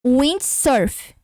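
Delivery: Windsurf with W said as a U glide, uindsurf; teacher repeating Windsurf; repeated demo pronunciation. Shown as a demonstration. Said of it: "vou repetir".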